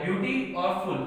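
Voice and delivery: ब्यूटी and फुल sounded as two separate parts; split into parts. Shown as a demonstration. Teacher showing the word's parts, ब्यूटी और फुल said piece by piece. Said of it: "दो syllable का हो गया".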